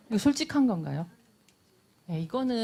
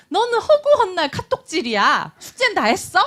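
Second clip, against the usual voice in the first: higher, louder scolding nag; nagging mom; 10 semitones higher, 6 dB louder than usual. Acted. Mom nagging her child about texting and homework, loud scolding nag. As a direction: scold the kid for always texting. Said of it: "잔소리가 시작되죠".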